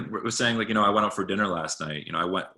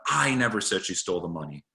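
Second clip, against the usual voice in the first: "I" benadrukt, de rest vlak; stress on I. Shown as a demonstration. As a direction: leg de klemtoon op "I". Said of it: "emphasizing the underlying word".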